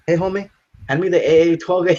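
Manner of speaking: high, quick cholo voice; mock cholo. Joking about cholos adding A to words, mock cholo voice. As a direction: ham up a cholo asking for a gun. Mock gang member asking for gun.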